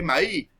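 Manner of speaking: "maí" without the final Z sound; "maí" ending open on the vowel; dropped final S. Shown as a demonstration. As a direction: say "maí", dropping the last consonant. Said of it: "En vez de decir maíz".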